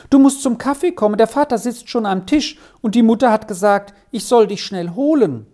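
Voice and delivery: put-on high, hurried child's voice; anxious. A narrator's reading. Child calling brother to the waiting table, anxiously. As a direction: rush the message out high and worried. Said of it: "sagte Steffeli ängstlich".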